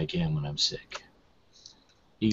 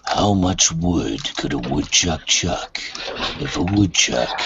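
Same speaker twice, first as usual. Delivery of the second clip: gravelly voice. Shown as a demonstration. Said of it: "gravelly voice".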